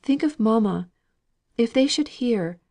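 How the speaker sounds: urgent and forceful; vehement. A narrator's reading. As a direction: insist vehemently.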